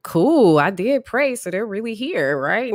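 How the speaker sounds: very high, loud oh really then eager chatter; naive excitement. Retold or imitated. Therapist thrilled to hear of angels in her office, eager and high. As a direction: gush like you just got good news. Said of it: "I'm like".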